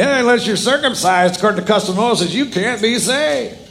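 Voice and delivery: high-pitched mock of false teachers; men from Judea. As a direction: mimic insistent legalists, slowing at the end. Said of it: "They're saying".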